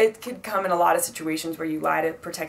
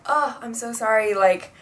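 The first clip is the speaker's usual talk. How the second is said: drawn-out, stalling excuse; overdone apology, louder as it stalls; fake apology; 4 dB louder, much slower than usual. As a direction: stretch the words while inventing an excuse. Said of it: "and then it's not true".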